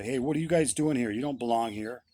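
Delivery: retelling a pastor's angry challenge. Retold or imitated. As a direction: pastor telling them they don't belong, angry. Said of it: "And he was angry".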